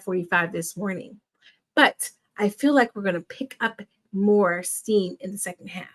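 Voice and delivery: smooth broadcast host voice; sports announcer. Acted. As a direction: welcome viewers like a TV host. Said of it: "Do I sound like a sports announcer?".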